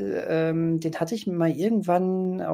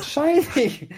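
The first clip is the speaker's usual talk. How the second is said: horror trailer voice; 10 semitones higher, 4 dB louder than usual. Retold or imitated. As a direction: announce the title like a horror trailer. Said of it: "in einem ähnlichen Tonfall wie du gerade den Titel".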